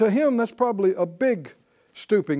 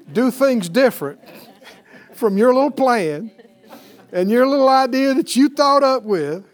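rising, loud pulpit emphasis; fervent preacher voice; preaching at full force; 3 semitones higher, 6 dB louder than usual. Real, not acted. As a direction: drive the point home to the congregation. Preaching builds.

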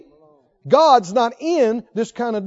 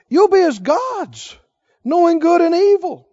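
higher, louder, slow seductive pitch; tempting serpent; 6 semitones higher, 5 dB louder than usual. Retold or imitated. Preacher voicing the serpent tempting Eve, grand and coaxing. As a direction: sell the lie grandly. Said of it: "Is this respectful or disrespectful?".

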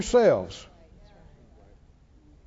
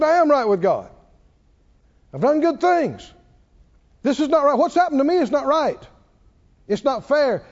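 mildly indignant protest, insisting; worked up; 3 semitones higher than usual. Retold or imitated. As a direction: push back, acting the wronged man. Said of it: "Job got worked up".

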